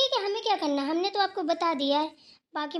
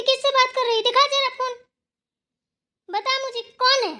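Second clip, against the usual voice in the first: loud, raised scolding demands; angry scolding; 4 semitones higher, 4 dB louder than usual. Acted. Catching her on the phone during work, angry scolding. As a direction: scold sharply, pitch climbing as you demand answers.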